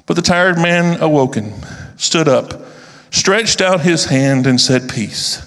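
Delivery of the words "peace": whispered. A narrator's reading. The traveler calms the storm.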